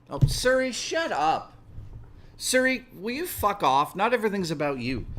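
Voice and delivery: sharp, high-pitched irritation at the phone; real irritation barked at Siri; annoyed at Siri. Real, not acted. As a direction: snap at the assistant to shut up. Swearing at Siri interrupting.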